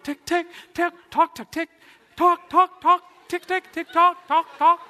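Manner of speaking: isolated syllables, building high, loud and rapid; tentative to fervent. Retold or imitated. Man tries praying in tongues, hesitant then increasingly excited. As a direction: start cautiously, build to an excited staccato chant. Acts out first attempt at tongues.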